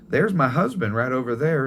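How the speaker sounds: put-on old mother pointing out her husband again; grandma's voice. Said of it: "And she goes".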